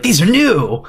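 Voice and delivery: loud, high mock shout; forceful. Co-host imagining how he'd say it, forceful mock shout. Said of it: "in a forceful way".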